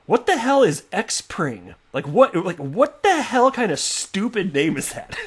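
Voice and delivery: high, slow incredulous outburst, breaking into a laugh; mock outrage, drawn out and amused; laughing disbelief. Host recalling first seeing the name, laughing disbelief. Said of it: "I'm laughing about it".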